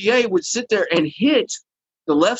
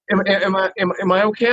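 retold nervous stammer; 3 semitones higher than usual. Nervous new guy with shaking hand.

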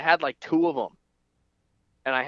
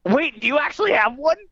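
high, loud disbelief; shocked and much higher; surprised; 12 semitones higher, 5 dB louder than usual. Real, not acted. Friend produces freeze pop.

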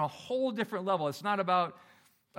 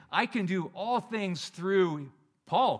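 slow, louder, self-important drawl; mock boastful misquote; 2 semitones higher, 5 dB louder, much slower than usual. Pastor mocking a proud Paul, slow and boastful. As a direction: puff up and savour the wrong word Paul.

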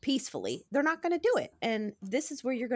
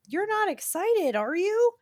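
high teasing teacher voice; playful teasing; 12 semitones higher, 7 dB louder than usual. Retold or imitated. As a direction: tease the kids, knowing the answer. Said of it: "And she was like".

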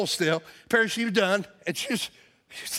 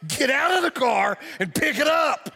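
scolding parent; 5 semitones higher than usual. Retold or imitated. Pastor ordering stranger like his daughter, scolding shout. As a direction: boss her like a misbehaving kid. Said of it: "like she was my, you know, eight-year-old daughter".

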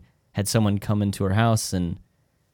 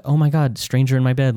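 screaming stranger alarm; 4 semitones higher, 5 dB louder than usual. Retold or imitated. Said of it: "screaming, yelling".

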